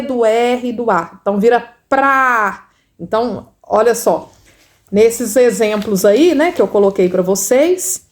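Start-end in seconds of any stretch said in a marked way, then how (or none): 1.9-2.7 PRA with the R clearly sounded; teacher sounding out PRA; sounding out blend. Shown as a demonstration. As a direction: stretch PRA into one long syllable. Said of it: "tenho que falar o som do P".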